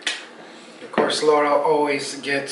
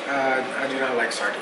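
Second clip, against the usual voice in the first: laughing; 3 semitones lower, 5 dB quieter than usual. Real, not acted. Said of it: "repeats it laughing".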